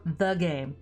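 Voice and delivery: "the game" set apart, dropping on "game"; capitalized emphasis. Shown as a demonstration. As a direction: land heavily on "the game" like a title. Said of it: "I hate that it's capitalized".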